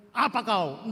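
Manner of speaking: a curt brush-off; mock rude reply; rude snap. Shown as a demonstration. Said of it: "Nggak begitu".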